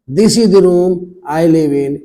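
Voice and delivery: slow demo with THE said as 'dee'; emphatic THE. Shown as a demonstration. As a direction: stretch the sentence, THE as a clear 'dee'. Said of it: "यानी जोर दिया जा रहा". (THE को 'दी' पढ़ते हुए, धीरे)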